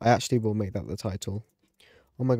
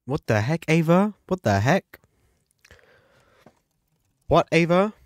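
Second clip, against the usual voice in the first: high, louder indignant question; outraged disbelief; 6 semitones higher, 7 dB louder than usual. Real, not acted. Asking Ava what the heck in outrage. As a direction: demand it in disbelief.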